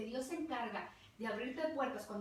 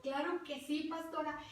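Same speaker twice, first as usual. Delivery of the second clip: glad acceptance; 4 semitones higher than usual. Retold or imitated. Acts out accepting a preaching invitation.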